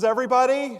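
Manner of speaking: imitated crowd call, high and loud; calling for attention. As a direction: pitch it up to gather a whole crowd. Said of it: "she gets everybody's attention".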